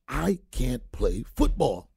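half-speed, weighty retold verdict; measured, deliberate quoted admission; slow, emphatic. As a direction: draw out each word of the quote. Retold owner's blunt verdict, drawn out.

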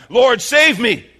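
loud, high, drawn-out plea; crying out. Retold or imitated. Sinking Peter cries out to Jesus, pleading shout. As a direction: shout desperately for rescue, stretching the words. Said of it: "he cried out".

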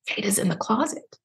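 hushed, secretive stage whisper; retold whisper. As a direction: pass it on softly, as a secret. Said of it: "I hear her whisper".

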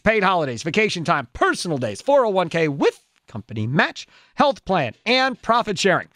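upbeat radio ad read. Acted. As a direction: sell it like a live spot. Host reads a live ad.

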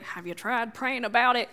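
put-on light Southern accent, syrupy and pious; a hint of a Southern churchgoer asking. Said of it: "I gave that a Southern accent for a reason".

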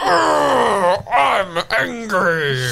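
fake angry. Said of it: "You're coming in really angry".

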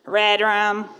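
put-on "Red Rum." said low and slow, creepy child whisper-like; creepy kid voice. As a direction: imitate a creepy little boy, pitched low. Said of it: "saying it with his creepy voice".

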